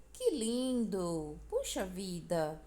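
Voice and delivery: drawn-out, slow exclamation of mild wonder; exclamation of surprise. Shown as a demonstration. Teacher giving examples of exclamative phrases, mildly surprised exclamation. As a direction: stretch each exclamation with a touch of emotion. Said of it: "Uma emoção, uma surpresa".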